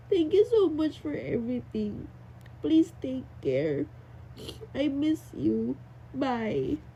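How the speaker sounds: put-on reading a child's note gently; letter reading. Reading student's letter aloud. (mabagal na pagbasa ng liham)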